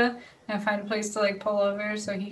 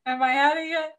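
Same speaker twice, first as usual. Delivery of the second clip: retold panic; 3 semitones higher, 5 dB louder, faster than usual. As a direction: blurt it out, reliving the panic. Retells panicking at speed minimum.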